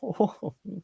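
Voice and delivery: high, soft wordless "ooh"; mock wordless reaction. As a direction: mimic a speechless reaction video host. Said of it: "people are just like".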